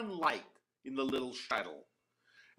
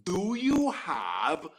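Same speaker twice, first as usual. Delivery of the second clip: loud clear voice; much slower than usual. Acted. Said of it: "in a loud, clear voice, but not too forceful".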